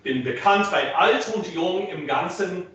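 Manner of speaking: "bekannt" and "alt" with released, audible T; crisp final consonants. Shown as a demonstration. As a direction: recite "Bin bekannt bei alt" with noisy consonants for the balcony. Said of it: "get that T out there".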